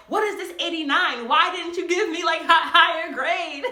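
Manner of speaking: loud, indignant complaint; complaining. Retold or imitated. Student complaining to teacher, loud and indignant. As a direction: demand the grade, indignant. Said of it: "going to that teacher and complaining".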